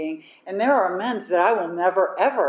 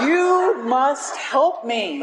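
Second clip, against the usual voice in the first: laughing mock plea; 7 semitones higher, 4 dB louder, much slower than usual. Acting out her desperate plea.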